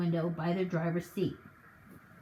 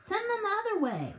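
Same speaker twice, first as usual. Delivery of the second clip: frantic; 12 semitones higher than usual. Acted. Hazel still bellowing.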